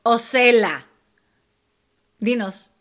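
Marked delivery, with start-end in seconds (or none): 0.2-0.9 "Cela" starting with an s sound; s pronunciation. Shown as a demonstration. Answering co-host's pronunciation question, "Cela" with s. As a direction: say "Cela" with a plain initial s. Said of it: "cómo lo pronuncias tú".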